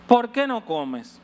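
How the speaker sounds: husband's plea. Retold or imitated. Husband questioning weeping wife.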